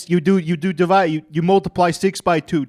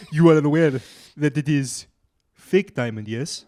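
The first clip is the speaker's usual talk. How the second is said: put-on slight African accent. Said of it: "I'm doing a slightly African accent".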